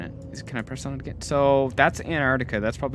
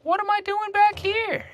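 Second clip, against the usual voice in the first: high, breathless whispered question. Acted. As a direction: whisper it, lost and scared. Whispered confusion on return.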